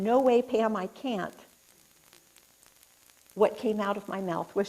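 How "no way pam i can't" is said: inner refusal. Retold or imitated. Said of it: "my head was saying".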